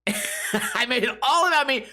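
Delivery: amused self-mocking laugh. Real, not acted. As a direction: giggle it out at yourself. Laughing at himself, repeated.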